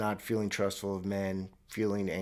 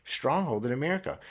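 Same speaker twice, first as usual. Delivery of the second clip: mock smug; 4 semitones higher than usual. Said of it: "I go".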